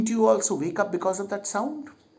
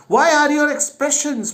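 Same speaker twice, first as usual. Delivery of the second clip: much higher, louder shocked outcry; shocked king; 9 semitones higher, 5 dB louder than usual. Acted. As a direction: recoil at their horrible faces.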